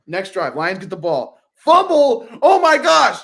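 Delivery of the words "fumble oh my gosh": high, loud reliving of a big play; mock-live shout of disbelief; excited exclamation. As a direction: cry it out like a fan watching. Reliving the fumble.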